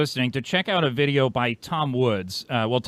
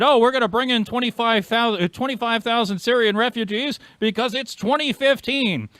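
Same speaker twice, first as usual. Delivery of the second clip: Trudeau impression; 9 semitones higher than usual. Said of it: "when Trudeau said".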